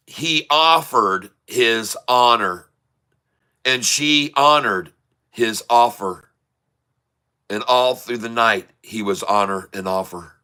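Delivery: each word drawn out, slow and weighted; slow, deliberate joke delivery. Shown as a demonstration. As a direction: savour the wordplay slowly, like a punchline. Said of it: "a joke I like to say".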